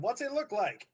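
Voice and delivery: high, half-hearted call across a room; pretend shout across room. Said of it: "I shout across the room".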